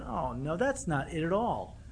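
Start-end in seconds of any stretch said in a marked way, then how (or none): none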